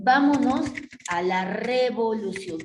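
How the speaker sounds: rallying cry. Acted. People calling for revolution.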